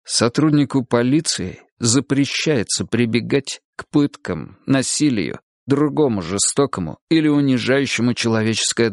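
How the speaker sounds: clear articulate recitation. A narrator's reading. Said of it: "заговорил отчётливо и ясно".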